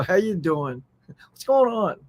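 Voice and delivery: demonstrated American falling endings; American downward intonation. Shown as a demonstration. Host contrasting Americans with Australians, American falling intonation. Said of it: "it drops down in our country".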